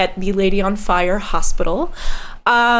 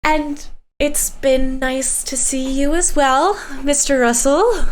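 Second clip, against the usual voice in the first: Vivian's voice; 3 semitones higher than usual. Acted. Vivian coolly answers ex's friend.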